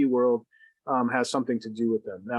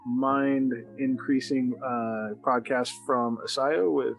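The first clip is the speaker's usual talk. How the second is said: radio voice. Real, not acted. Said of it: "I'm trying to use my cool radio voice".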